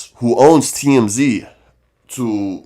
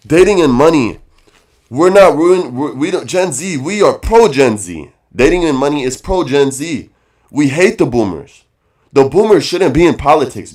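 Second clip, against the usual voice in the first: heated rant; 3 semitones higher, 5 dB louder than usual. Real, not acted. Rant continues, defending his show.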